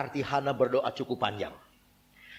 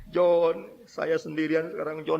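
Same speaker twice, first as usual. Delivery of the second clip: lightly imitated lament, the name held long; keen the name, half-sung; mock crying; 3 semitones higher, 3 dB louder, slower than usual. Widow alone at her husband's grave, mock crying. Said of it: "dia nangis lagi".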